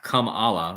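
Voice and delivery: Kamala said like two words, kum-AH-luh; sound-alike pronunciation. Shown as a demonstration. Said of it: "It does sound like".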